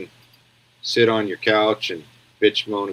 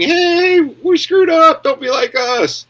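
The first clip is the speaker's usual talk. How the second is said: mock English voice; 4 dB louder, slower than usual. England voiced warning the world.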